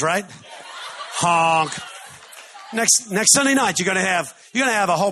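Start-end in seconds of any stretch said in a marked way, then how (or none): 1.1-1.7 honk imitation. Shown as a demonstration. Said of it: "there's a honk language".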